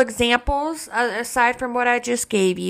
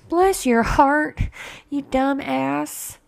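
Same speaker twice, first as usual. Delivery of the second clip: drawn-out sugary "Bless your heart, you dumb ass"; slow honeyed put-down; slow sticky-sweet southern insult; 3 semitones higher, much slower than usual. Retold or imitated. Mock insult to a fool.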